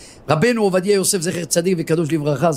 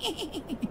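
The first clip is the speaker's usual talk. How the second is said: high, quiet mock giggle; imitated suppressed laugh; 10 semitones higher, 17 dB quieter than usual. Seminary student laughing at the mix-up, imitated high suppressed giggle. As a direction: mimic someone laughing on the inside. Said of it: "והאברך צוחק".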